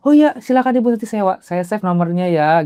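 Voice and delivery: oblige her courteously, starting high; polite compliance. Retold or imitated. Retold polite reply to older woman. (sopan mempersilakan, mulai dengan nada tinggi)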